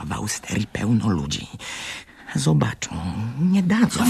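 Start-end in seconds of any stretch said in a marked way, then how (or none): 2.4-4.1 louder and higher; warning they'll be caught; rising protest. Acted. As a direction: argue back urgently. Boy argues, rising.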